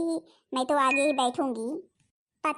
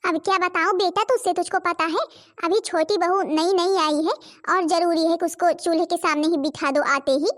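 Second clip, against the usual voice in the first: loud, complaining rant; angry mother-in-law; 3 dB louder than usual. Acted. Mother-in-law complaining to her son, loud angry rant. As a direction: scold the elder daughter-in-law loudly. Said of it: "आप इतने गुस्से में क्यों हैं".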